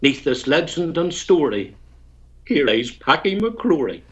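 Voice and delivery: lilting, storytelling rhyme recital; poem recitation. Acted. Ulster poet recites his comic ballad to the radio host, rhythmic recital. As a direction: recite the ballad with a bard's relish.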